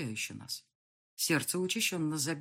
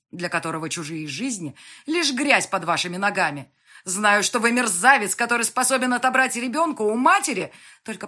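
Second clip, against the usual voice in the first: loud, higher furious accusation; shouting in rage; 5 semitones higher, 9 dB louder than usual. Acted. Heroine screaming accusations at Yan, furious. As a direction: scream every charge at him. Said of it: "Я уже кричала".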